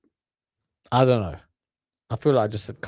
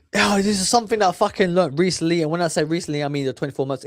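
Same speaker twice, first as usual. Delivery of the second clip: mock polished podcaster, a bit higher; lightly imitating a smooth host, raised pitch; mocking Steven Bartlett; 6 semitones higher, faster than usual. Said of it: "It's just the way he talks".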